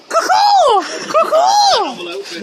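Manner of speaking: seagull mating call. Pretend. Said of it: "fascination of the seagull mating call".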